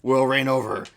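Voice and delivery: a lightly voiced gloating villain, low and proud; villain monologue. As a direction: savour each threat like a would-be emperor.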